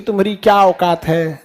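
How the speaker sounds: a sugary put-down said with mock affection; said lovingly. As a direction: deliver the insult tenderly, like a kindness. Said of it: "ऐसे प्यार से बोलेंगे".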